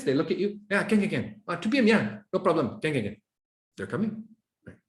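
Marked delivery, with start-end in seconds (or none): 0.7-3.2 sure, steady can can can with eye contact; confident yes. Retold or imitated. A colleague confidently agreeing to come. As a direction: say it looking straight at them, sure. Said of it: "if they say with confidence".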